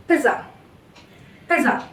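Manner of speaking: pizza stressed on the first syllable, light "uh" ending; unstressed final A. Shown as a demonstration. Teacher showing learners the schwa in pizza, unstressed ending. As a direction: say pizza with no weight on the last A. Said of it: "not giving any stress on this last A".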